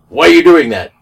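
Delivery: mock cop yelling a question; imitating a cop shouting at a suspect; cop barking. Cop quoted confronting him.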